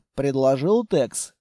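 ordinary delivery

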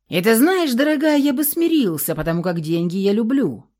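ordinary delivery, nothing marked

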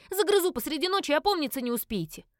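loud high menacing yell; shouted threat. A narrator's reading. Creature yelling a threat at the family, loud. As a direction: scare them off.

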